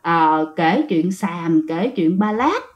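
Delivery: lightly voiced commenter brushing off the storyteller as a liar; mock scornful hater. Viewer who hates ghost stories mocking the storyteller, mildly scornful. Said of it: "em vô em chửi".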